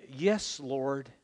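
a hint of an intimate whispered prayer; quiet prayer. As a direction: pray it gently and humbly. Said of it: "by opening my heart to God and saying".

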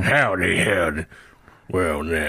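low, drawn-out Texas cowboy greeting; deep Texas drawl, like an old cowboy tipping his hat; Texas accent. Acted. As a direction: lay on a lazy Texas drawl. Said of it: "I do a Texas accent".

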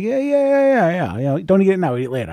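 excited yeah-yeah coaxing; eager insisting. Retold or imitated. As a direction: talk him into taking it, high and eager. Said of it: "I'm like".

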